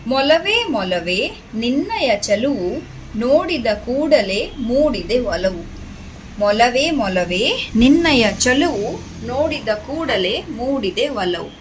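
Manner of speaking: lilting, measured verse reading; poem recitation. Shown as a demonstration. Teacher reads rabbit poem to children, sing-song recitation. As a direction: recite it in rising and falling waves.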